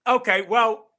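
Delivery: hammed-up amateur British accent; bad British accent. Shown as a demonstration. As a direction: put on a bad British accent, loud and high. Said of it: "tell us in a British accent".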